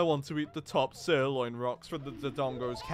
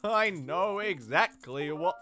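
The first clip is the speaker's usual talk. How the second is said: loud, higher excited cry; overjoyed Goron; 6 semitones higher, 7 dB louder, slower than usual. Acted. Darunia hearing the tune he wants, loud and joyful. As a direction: burst out with delight.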